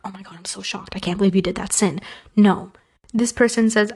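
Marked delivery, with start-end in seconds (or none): 0.1-2.0 hushed, breathless mock shock; whispered fake horror; mock shocked gasp. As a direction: hand over mouth, scandalized. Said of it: "puts their hand over their mouth".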